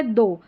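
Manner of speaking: दो with a long "o" ending; दो, ending on a clear "oh"; OUGH as "o". Shown as a demonstration. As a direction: say दो with OUGH sounded as "oh". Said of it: "ओ करके उच्चारण हो रहा है".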